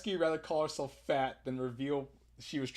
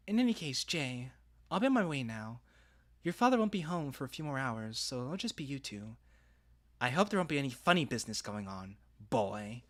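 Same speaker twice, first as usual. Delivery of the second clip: put-on southern accent. Texas stepmom leaving two teens alone, southern accent. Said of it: "I gave her a southern accent".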